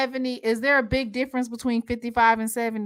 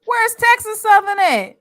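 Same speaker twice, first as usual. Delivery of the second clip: much higher and louder, surprised question; 11 semitones higher, 7 dB louder than usual. Real, not acted. Host asks where Texas Southern went, surprised. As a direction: sound surprised that a team was left out.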